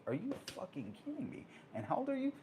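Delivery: can't believe what he's hearing; high, stunned disbelief. Retold or imitated. Shocked by the lowrider bike kid.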